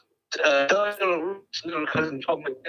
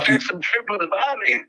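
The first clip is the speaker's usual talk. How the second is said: bright, hammed-up Australian accent, a little higher; put-on Australian accent; 5 semitones higher, 4 dB louder than usual. Prank caller greets the host in a mock Australian accent. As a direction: caller plays a cheery Australian bloke. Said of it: "enormously convincing accent".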